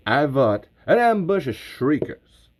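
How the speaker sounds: lightly voiced Southern braggart, some lines slowed; boastful Bert Gummer. Host as Bert boasts to fans, light Southern swagger. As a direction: brag about old fights like a war story. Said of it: "like, Southern for Bert".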